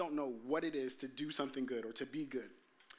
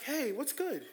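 a cheerful, higher hey, what's good; bright greeting; 7 semitones higher, slower than usual. Shown as a demonstration. Preacher showing friends greeting each other, raised and upbeat. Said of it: "It's not that".

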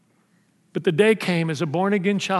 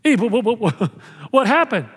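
God asking, laughing; 2 semitones higher than usual. Acted. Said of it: "He says".

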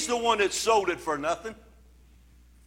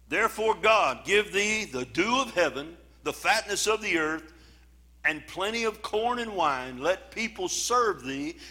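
scripture reading; 2 semitones lower than usual. Acted. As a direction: lay each clause down with weight. Reads Isaac's blessing from Genesis.

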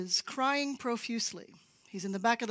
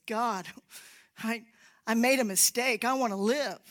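desperate prayer; 6 dB louder than usual. Retold or imitated. Kevin's desperate prayer in water.

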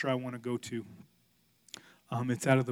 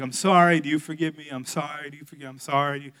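repeated rote apology; 7 dB louder, faster than usual. Retold or imitated. Dad apologizing to each of many kids, rattled off. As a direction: run of apologies, back to back. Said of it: "That takes a long time. There's a lot of kids".

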